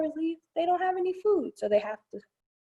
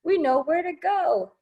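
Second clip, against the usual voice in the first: lively rhyming picture-book read; reading to children. Acted. Librarian reading a bee book to children, sing-song. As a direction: read the verse out to the kids with a bounce.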